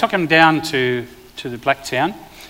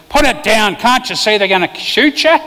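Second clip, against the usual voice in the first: higher, louder urgent plea; alarmed wife; 6 semitones higher, 4 dB louder than usual. Retold or imitated. Wife begging her husband to drop the crossbow, urgent and loud. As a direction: plead with him sharply to drop it. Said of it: "And she said".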